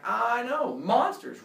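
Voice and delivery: loud, high, pleased exclamation; emphatic boasting. Retold or imitated. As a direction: proudly agree over the screaming. Heracles shouting over screams.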